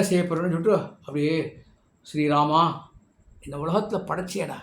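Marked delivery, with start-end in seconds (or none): 2.1-4.6 mildly sorrowful, subdued plea to God; distressed lament. Retold or imitated. Tearful daughter-in-law appeals to Rama over her workload, understated lament. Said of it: "ரொம்ப வருத்தப்பட்டு".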